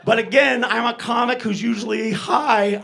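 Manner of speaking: ordinary talk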